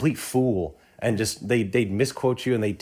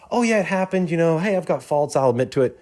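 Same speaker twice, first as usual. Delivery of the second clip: breezy, higher, louder shrug-it-off voice; downplaying; 7 semitones higher, 4 dB louder than usual. Imitating someone downplaying their own failures to a friend, breezy and higher. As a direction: brush it off like it's nothing. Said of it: "That, that's downplaying it".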